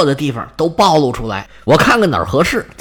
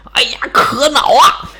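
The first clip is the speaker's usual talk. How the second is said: angry lion; 6 semitones higher than usual. Acted. The lion losing his temper at Hercules, hammed-up angry cry. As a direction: flare up like an opera villain. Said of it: "现在我生气了啊".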